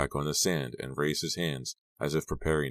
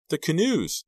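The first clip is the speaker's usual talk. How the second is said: very high, louder cry of alarm; shocked exclamation; 13 semitones higher, 5 dB louder than usual. A narrator's reading. Discovering the canoes are missing.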